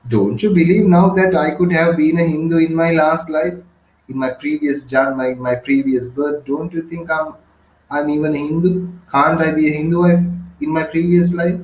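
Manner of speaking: a touch of excitement, lightly acted out; understated excited exclamation; excited cry. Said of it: "little high-pitched voice, kind of excited voice".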